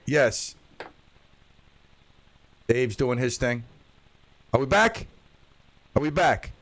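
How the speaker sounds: talking through a robot voice changer. Real, not acted. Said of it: "Robot voice got me again".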